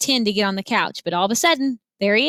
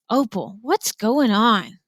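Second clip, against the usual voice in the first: confused preacher; slower than usual. Acted.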